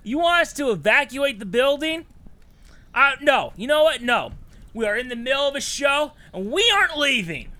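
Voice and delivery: high, loud defiant refusal; defiant shouting. Acted. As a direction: stand your ground, shout it out. Defying someone at the door.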